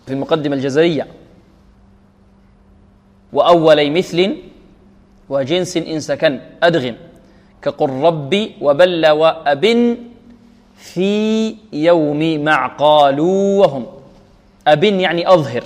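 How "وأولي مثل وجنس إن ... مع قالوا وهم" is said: slow, measured chanted verse; verse recitation. Shown as a demonstration. Teacher citing the Jazariyya as proof, slow recitation. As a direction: recite the rule in held syllables. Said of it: "نريد الشاهد".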